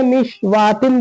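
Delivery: मिशवातिन with "waa" in place of "kaa"; possible misreading. Shown as a demonstration. Teacher guessing how people misread it, waw voiced. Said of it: "अब इसको लोग क्या पढ़ते हैं?".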